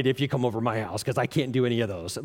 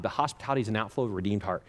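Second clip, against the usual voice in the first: rushed recap; 3 semitones lower, much faster than usual. Shown as a demonstration. Preacher rushing through his points for time, quick recap. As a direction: hurry the recap along for time's sake. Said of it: "I'm just gonna give you these for time's sake".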